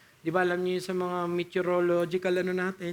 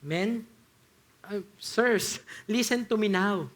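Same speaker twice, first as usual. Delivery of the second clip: calm appeal; slower than usual. Retold or imitated. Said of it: "Kalmado pa rin siya".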